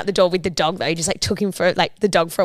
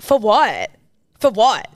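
mimicked retort, a touch louder; partner's indignant retort; 2 semitones higher, 4 dB louder, much slower than usual. Mimicking partner's usual reply, mildly indignant. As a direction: repeat a partner's indignant comeback, mildly exaggerated. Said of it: "He always says it like that".

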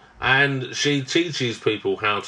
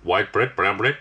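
hesitant stab at a South African accent; bad South African accent; 3 semitones lower than usual. Shown as a demonstration. Cohost demonstrates their South African accent to partner, badly. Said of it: "torrentously bad, um, South African accent".

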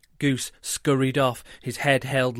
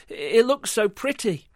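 dreamy goose voice; 9 semitones higher, 4 dB louder than usual. Acted.

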